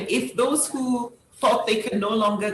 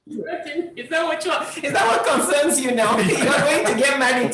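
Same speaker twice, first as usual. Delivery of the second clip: laughing through the words, a bit higher; tickled by the jab, laugh it out; amused laughing; 4 semitones higher than usual. Real, not acted. Host laughing at the guest's jersey dig, amused laughing.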